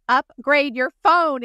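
telling the friend off with the flip phone; mock exasperated order. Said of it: "And I'm like".

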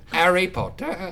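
attempted British accent; put-on British accent. Trying a phrase to get into an accent, put-on British. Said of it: "phrase that you've gotta say to get into an accent".

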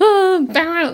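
high frazzled mom yelp; flustered exclamation. Retold or imitated. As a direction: blurt it out, overwhelmed. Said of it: "I'm like".

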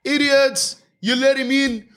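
high, drawn-out mocking whine; mock complainers. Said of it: "And you go".

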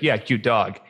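low, understated mock indifference; melancholic, low reply. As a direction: imitate an unimpressed melancholic, pitched low. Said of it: "a melancholic who's like".

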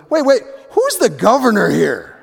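a host teasing with a grin you can hear; joking Bill. Retold or imitated. Bill jokes at the door.

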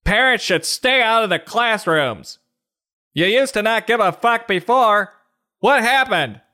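mock union president. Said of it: "sound like the teachers union president".

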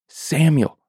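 a high, far-off call of the name; distant calling voice. Acted. God calling the sleeping boy, high and far off.

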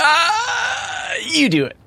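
high squealing lovey-dovey coo; giggly late night call. Pretend. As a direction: play the smitten teen who won't hang up. Mock lovers' phone goodbye.

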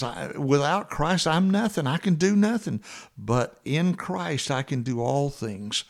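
fervent Paul quote. Retold or imitated. Voicing Paul, rising then calm.

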